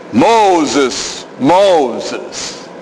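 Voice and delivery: low, solemn calling out; calling voice of God. Shown as a demonstration. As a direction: call his name from afar.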